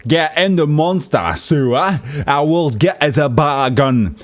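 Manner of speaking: exaggerated British accent with big mouth shapes; mock British accent. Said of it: "make really big gestures with your mouth".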